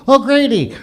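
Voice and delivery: high meek reply; a sheepish high answer; immigrant answering. Retold or imitated. Immigrant giving his name to an officer, high and meek.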